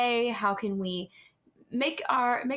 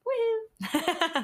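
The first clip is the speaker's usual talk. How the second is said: excited cheer; 8 semitones higher than usual. Real, not acted. Cheering podcast intro.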